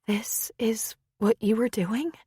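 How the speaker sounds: a hushed, breathy whisper of a question; near whisper. Acted. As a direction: whisper it in disbelief, almost no voice. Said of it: "she said in a near whisper".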